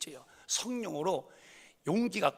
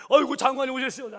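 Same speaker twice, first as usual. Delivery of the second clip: fawning welcome; 8 semitones higher, 11 dB louder, faster than usual. Retold or imitated.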